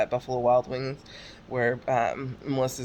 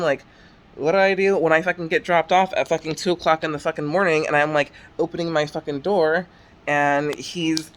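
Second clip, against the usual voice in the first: louder, worked-up venting; real frustration, voice raised and pushing; exasperated; 2 semitones higher, 5 dB louder than usual. Real, not acted. Woman venting about being followed home by her ex, exasperated.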